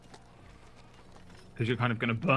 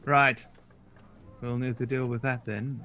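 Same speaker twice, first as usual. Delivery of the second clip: wizard. Acted. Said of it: "she says".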